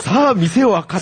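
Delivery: high, loud, laughing through it; laughing cheer call. Pretend. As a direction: shout it out while cracking up. (笑いながらの掛け声)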